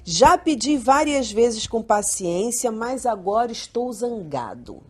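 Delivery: slow, deliberate read-out of a parent's line; leitura de frase. Acted. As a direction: read the quoted phrase slowly and evenly. Host reads the discussed parenting phrase. (frase lida devagar, pausadamente)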